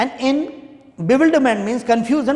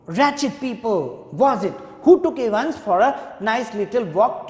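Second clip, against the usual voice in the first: governor shouting. Acted. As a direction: bellow at them like an enraged governor. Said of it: "The governor is shouting at these two prison officers".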